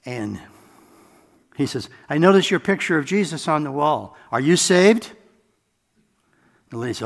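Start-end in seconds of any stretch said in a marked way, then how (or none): 2.1-5.1 imitating the boss. Boss voiced in a retold story.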